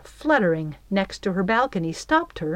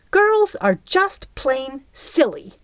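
slow, high growl of disgust; 6 semitones higher, 3 dB louder, slower than usual. A narrator's reading. Belle flying off, growling about the girls. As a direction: drag it out with disdain. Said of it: "she growled".

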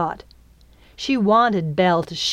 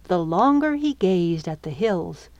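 usual speaking voice

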